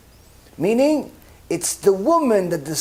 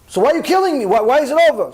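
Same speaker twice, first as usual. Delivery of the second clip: higher, louder pleading woman; desperate plea; 6 semitones higher, 4 dB louder, faster than usual. Retold or imitated. Dying woman pleading with heaven, desperate. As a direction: beg for your life before the court.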